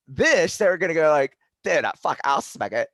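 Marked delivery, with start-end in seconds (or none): 1.6-2.9 mock stoner dude. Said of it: "it was a pretty good impression".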